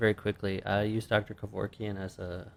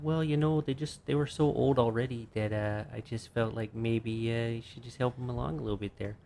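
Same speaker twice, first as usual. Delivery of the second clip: put-on Canadian accent; 2 semitones higher than usual. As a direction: quote her in a mild Canadian accent. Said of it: "That's not what you sound like".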